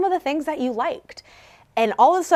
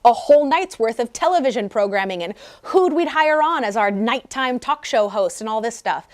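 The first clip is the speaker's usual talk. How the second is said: put-on thrilled inner child raving about her favorite class; excited gushing. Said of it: "I'm watching her get so excited".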